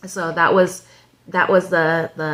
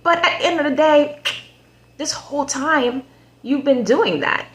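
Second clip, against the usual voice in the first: much higher, pointed rebuke; indignant callout; 9 semitones higher than usual. Real, not acted. Scolding the show's player, higher and indignant. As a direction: call him out, disbelieving.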